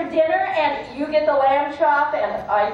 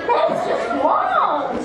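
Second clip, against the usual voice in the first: higher, slow laughing disbelief; 7 semitones higher, 4 dB louder than usual. Acted. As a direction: stretch it out laughing. Repeated line slower.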